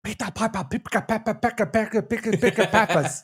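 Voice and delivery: put-on Peter Piper with Japanese accent, quiet; tongue twister in a light Japanese accent. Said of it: "In a Japanese voice".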